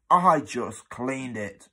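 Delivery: protesting. Acted. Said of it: "protested Dilly".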